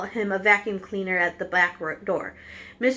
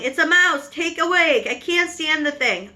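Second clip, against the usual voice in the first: high, loud panicked yell; frightened wife yelling at a mouse on the table; 6 semitones higher, 3 dB louder than usual. A narrator's reading. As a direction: shriek it out at the mouse.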